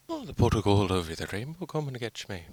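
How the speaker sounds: lightly voiced goofy leprechaun. Vlogger playing a leprechaun in the bush, lightly goofy. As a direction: tease like a hidden leprechaun. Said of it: "this mysterious leprechaun".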